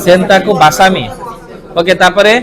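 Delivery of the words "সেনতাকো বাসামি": সেনতাকো বাসামি spoken slowly, each syllable clear for the class to repeat; slow clear model pronunciation. Shown as a demonstration. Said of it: "বলো শব্দটা কি?". (ধীরে স্পষ্ট উচ্চারণ)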